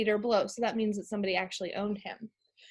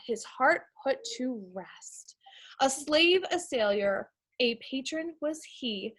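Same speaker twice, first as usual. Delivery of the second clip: put-on measured recital of a poem to kids; poem reading. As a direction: read it like a short verse, gently paced. Reads a poem aloud.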